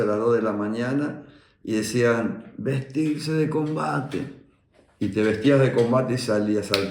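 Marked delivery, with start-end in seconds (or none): 2.6-4.4 high, drawn-out barracks call; imitated military order. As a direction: call out an order in slow, stretched syllables. Imitates night-time barracks order.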